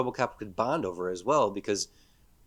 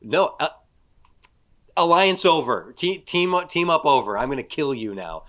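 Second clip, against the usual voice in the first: menacing robot; 5 semitones higher, 7 dB louder than usual. Retold or imitated.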